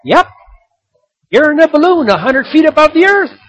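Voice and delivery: high, loud shout up to the sky; yelling back. Retold or imitated. Man on the ground shouting up to the balloon, loud. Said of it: "the man on the ground yells back".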